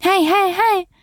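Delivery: drawn-out, pitch-swooping operator sympathy; hammed-up customer-service listening voice; call-centre operator. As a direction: play an effusively agreeing call-centre agent. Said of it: "コールセンター。".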